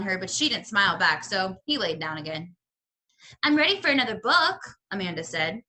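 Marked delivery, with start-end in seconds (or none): 3.4-4.6 fast, higher, pushy; impatient demand. Acted. Pinch-faced girl interrupts the librarian, fast and impatient. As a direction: cut in and demand attention. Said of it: "slamming her book down".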